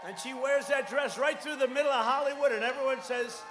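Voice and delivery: loud, punchy rally delivery; rally speech. Real, not acted. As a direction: sell it big to the crowd. Rally crowd, shouted lines.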